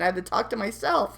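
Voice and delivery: giggling through the words; breaking up laughing. Real, not acted. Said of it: "Still laughing".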